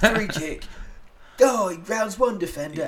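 laughing mock commentary. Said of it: "and starts".

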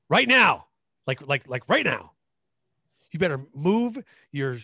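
barking orders, high and loud; drill sergeant. Pretend. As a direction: yell commands like a drill instructor. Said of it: "Hey, give me a drill sergeant".

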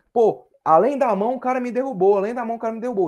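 mock protest of a fouled player; complaining. Commentator acts fallen player protesting to referee, complaining. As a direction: grumble it as an indignant appeal. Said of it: "ele cairia reclamando assim".

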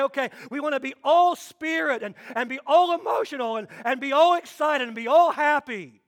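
hammed-up gushing about being all emotional; mocking the overemotional church. Preacher mocks emotional churches, mock-gushing.

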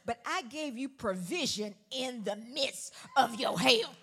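loud and slow, leaning on each word; slow preached build; drawn-out preaching. Acted. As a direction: stretch the line out over the crowd. Preaching the punchline.

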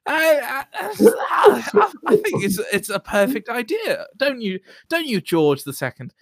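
put-on accented duck voice. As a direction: play a scheming colonial duck. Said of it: "So I had to put one on".

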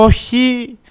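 a high yelled no as things fall; retold shout of no. Dropping his phone and tablet while running, a high mock yell. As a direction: cry out no as your gear drops. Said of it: "Εγώ να φωνάζω".

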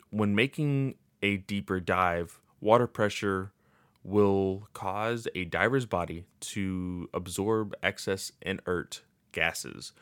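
flat, mechanical reading voice; robot voice. Shown as a demonstration. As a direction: read it out like a robot. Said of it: "I don't know why I'm talking like a robot".

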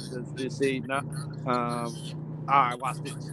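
halting stammer; stuttering. Retold or imitated. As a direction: stumble over the words. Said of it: "I start stuttering".

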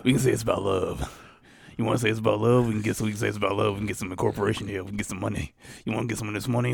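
scheming corporate villain, lightly voiced; evil villain voice. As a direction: purr it like a cat-stroking villain. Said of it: "I'm getting my evil voice on".

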